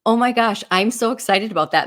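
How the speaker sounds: loud, high, teasing fake delight; mock excitement. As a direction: gush over it to needle him. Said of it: "razz him and give him a hard time".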